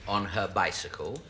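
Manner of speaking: deliberate storybook reading with long pauses; measured, innocent bedtime-tale telling; story narration. Acted. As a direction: improvise a prim ending, picking each phrase. Invents an innocent ending.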